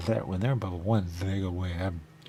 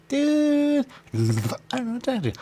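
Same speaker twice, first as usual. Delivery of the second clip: much higher and louder, exasperated cry; frustrated shout; 5 dB louder, faster than usual. Real, not acted. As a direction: yell it at the screen in frustration. Frustrated outburst at game.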